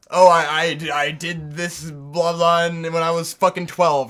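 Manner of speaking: mildly hammed-up boastful voice, starting loud; a hint of smug show-off; mock bragging. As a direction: lightly imitate a self-satisfied prodigy. Mocking the prodigy origin story.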